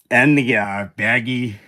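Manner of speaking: words stretched by a yawn. Real, not acted. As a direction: talk through a yawn. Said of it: "oh, I'm yawning too much".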